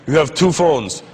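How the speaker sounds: put-on stern Arab-accented official; imitated angry Arab officer. Officer confronts traveler about phones, imitated Arab accent. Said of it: "an angry Arab dude".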